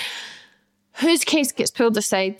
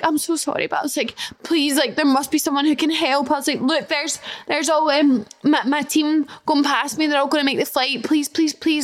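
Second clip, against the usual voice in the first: pleading; 3 semitones higher than usual. Retold or imitated. Begging airport staff for help.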